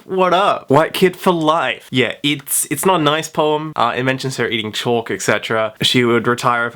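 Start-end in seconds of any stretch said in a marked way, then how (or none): 0.0-1.9 mock rapper. Jokey mock rapper boast.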